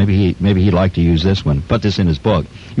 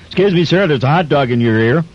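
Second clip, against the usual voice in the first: pitched well up, calling a bit louder; a little louder; 7 semitones higher than usual. Retold or imitated. To the guy in the beer line, a little louder. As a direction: raise the voice to get his attention. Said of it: "So I said a little louder".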